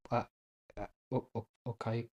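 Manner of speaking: very soft, halting question; confused stammer. Retold or imitated. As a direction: act out faltering, puzzled and small. Puzzled guest stammers about the bill.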